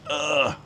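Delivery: high, soft straining groan; strained little "ugh"; effort grunt. Real, not acted. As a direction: let out a small grunt of exertion. Effort while pulling pants up.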